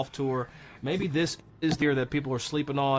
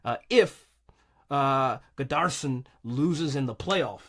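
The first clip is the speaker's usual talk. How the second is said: breathless from the hype; out of breath, slow at the end; slower than usual. Real, not acted. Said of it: "I'm out of breath with all this hype".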